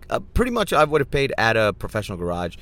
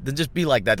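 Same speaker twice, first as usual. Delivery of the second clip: loud, higher angry outburst at the pushy guys; angry retort; 5 semitones higher, 5 dB louder than usual. Retold or imitated. Fed-up driver to the overcharging tire guys, angry outburst. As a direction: snap back at them, half laughing. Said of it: "Just leaves you angry and going".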